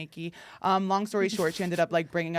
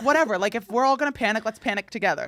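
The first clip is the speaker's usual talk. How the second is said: mock carefree; 3 semitones higher, 4 dB louder, faster than usual. Retelling herself egging friends on.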